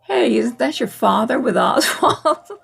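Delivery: delivering the joke through a chuckle; quoting the punchline while laughing; laughing Trump quote. Retold or imitated. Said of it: "And then Trump goes".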